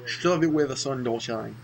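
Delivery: a bad stab at a British accent, quoting the game; mock British accent, half-hearted; horrible British accent. Gamer quotes the game's character in a bad British accent. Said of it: "That was a horrible accent".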